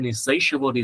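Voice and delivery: "insatiable" as in-SAY-shuh-bul; light s then heavy sh in "insatiable". Shown as a demonstration. Teacher models both sibilants, in-SAY-shuh-bul. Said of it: "Insatiable là âm sờ nhẹ ha".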